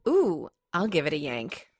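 slightly too sexy. Shown as a demonstration. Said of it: "I'm not doing a sexy, slightly too sexy grunt".

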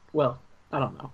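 usual speaking voice

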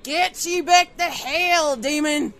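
mock exorcism shout. After the call, shouting a mock exorcism at the boss. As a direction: banish her like a priest casting out a demon.

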